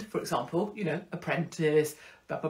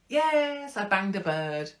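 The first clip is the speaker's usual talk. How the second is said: mock Tommy; slower than usual. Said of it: "And same with Tommy".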